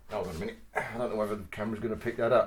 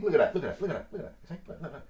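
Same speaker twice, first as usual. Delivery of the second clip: laughing; 4 semitones higher, much faster than usual. Real, not acted. Laughing while showing cut.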